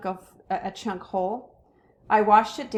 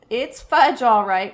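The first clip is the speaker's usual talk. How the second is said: put-on a toddler parroting his brother; toddler echo; 3 semitones higher, 8 dB louder than usual. A narrator's reading. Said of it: "my brother repeated".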